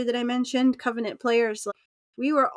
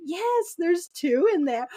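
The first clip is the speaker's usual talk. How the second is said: proud answer; 5 semitones higher than usual. Retold or imitated.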